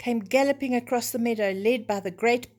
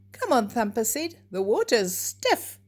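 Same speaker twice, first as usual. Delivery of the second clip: high, loud, excited rabbit call; eager call; 3 semitones higher, 4 dB louder than usual. Acted. Thumper calls Bambi onto the frozen pond, eager and bright. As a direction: invite your friend onto the ice.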